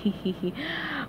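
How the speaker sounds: short, soft villain's chuckle; a quiet, scheming little laugh; sinister laugh. A narrator's reading. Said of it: "with a sinister laugh".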